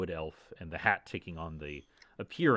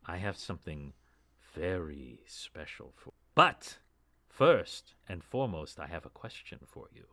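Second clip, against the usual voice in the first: 1 formal elf lady. Acted. GM voices the elf druid's formal speech.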